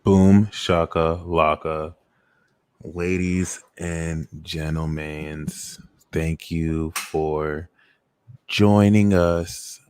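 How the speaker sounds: slow, booming robot voice. Pretend. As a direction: announce it like a robot. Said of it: "just do this whole ceremony in this robot voice".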